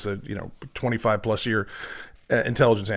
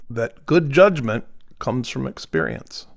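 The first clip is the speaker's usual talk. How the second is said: put-on Vermont accent. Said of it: "I have to go to my Vermont accent".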